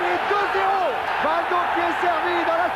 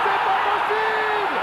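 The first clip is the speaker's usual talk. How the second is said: disbelieving shout; 3 semitones higher than usual. Real, not acted. Commentator reacts to equaliser.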